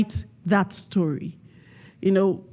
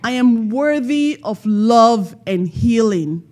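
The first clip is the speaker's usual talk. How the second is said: with conviction; 3 semitones higher, 4 dB louder than usual. Shown as a demonstration. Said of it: "let it sound like this".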